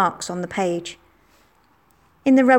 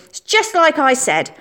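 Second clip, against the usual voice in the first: higher and slow, gloating; triumphant; 8 semitones higher, 4 dB louder than usual. Acted. Billy gloating at Margaret in the playground, triumphant. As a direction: savour being proved right. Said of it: "said Billy triumphantly".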